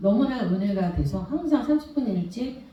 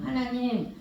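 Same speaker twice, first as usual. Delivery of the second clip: tearful prayer; 4 semitones higher, 5 dB quieter than usual. Retold or imitated. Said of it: "막 울었어요".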